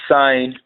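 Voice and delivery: "sign" as the sound of Sɛn, rhyming with sine; pronunciation demo. Shown as a demonstration. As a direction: model "sign" clearly for learners. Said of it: "Sɛn pronounced".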